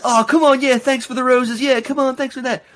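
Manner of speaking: high, sing-song mock streamer begging; imitating a vote-battle streamer thanking fans. Cohost mocking TikTok battle streamers in a high sing-song. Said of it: "They're like".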